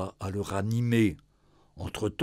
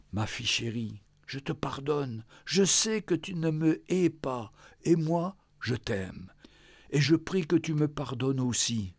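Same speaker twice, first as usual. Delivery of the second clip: tender letter voice. Acted. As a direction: read it like a dying father's last words. Father's farewell letter read.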